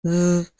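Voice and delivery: "The" with the TH unvoiced; voiceless th demo. Shown as a demonstration. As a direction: breathe "The" out with no voice in the TH. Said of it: "just take your voice out of it".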